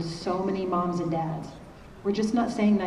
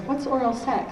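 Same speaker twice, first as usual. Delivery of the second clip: lightly voiced curious child, pitched up; higher, mildly childlike questioning voice; eight-year-old's question; 6 semitones higher than usual. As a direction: imitate a kid asking innocently. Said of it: "my eight-year-old was right behind me".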